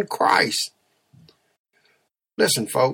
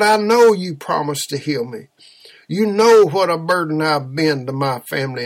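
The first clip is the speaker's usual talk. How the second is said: slow, loud tearful pleading, pitched up; crying and praying; 2 semitones higher, 4 dB louder, slower than usual. Retold or imitated. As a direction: beg the Lord through mock tears, drawn out. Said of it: "she was a crying and a praying".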